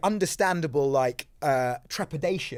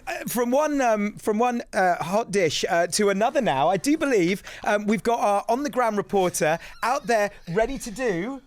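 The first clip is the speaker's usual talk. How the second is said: daytime TV presenter; 5 semitones higher than usual. Pretend. Hammy daytime presenter link.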